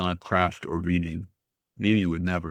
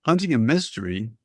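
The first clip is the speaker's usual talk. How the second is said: higher, with a rising end on "mystery"; questioning echo; 5 semitones higher than usual. A narrator's reading. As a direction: echo it back as a question, lifting "Hunting". Grandma asks back, puzzled.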